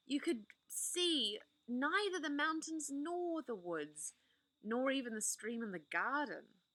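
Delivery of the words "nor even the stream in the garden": ordinary delivery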